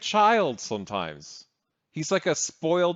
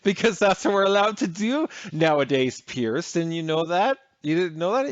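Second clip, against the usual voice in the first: sarcastic mockery; 3 semitones higher than usual. Co-host mocks guest's logic.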